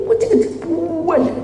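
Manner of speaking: "Kecil-kecil" jumped up very high; "Kecil-kecil" said in a high squeak; squeaky emphasis. Shown as a demonstration. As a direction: squeak "Kecil-kecil" way up to show how tiny. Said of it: "Cacing kecil-kecil".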